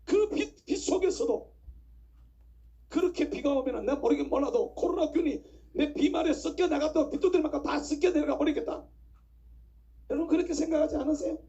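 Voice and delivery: fervent preacher in full flow; impassioned preaching. Acted. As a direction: press the congregation to agree. Preaches with raised voice.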